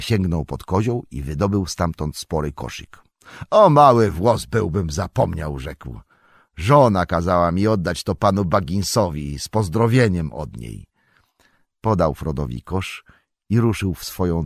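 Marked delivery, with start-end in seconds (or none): 3.5-10.9 farmer Maggot. Acted. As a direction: speak bluff and good-natured. Farmer voice again. (farmer Magot: donośny, rubaszny, dobroduszny głos)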